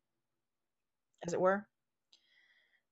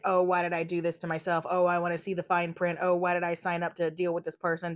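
whiny victim; 4 semitones lower than usual. Retold or imitated. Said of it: "ego dragon to be a victim".

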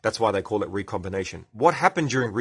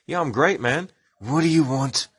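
higher-pitched comic character; put-on character voice; 4 semitones higher than usual. Gab answering a greeting, high character voice. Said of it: "I can talk Gab".

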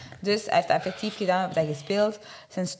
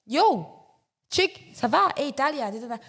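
street greeting, called out; 5 semitones higher than usual. Retold or imitated. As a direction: shout it across the street. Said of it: "Ik ben op straat aan het lopen".

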